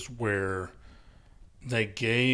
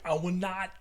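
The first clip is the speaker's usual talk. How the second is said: slow, higher, laughing put-on voice; laughing mock vow; 7 semitones higher, 4 dB quieter, slower than usual. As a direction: recite it like a schoolboy's lines while cracking up. Imitating Ernie, laughing.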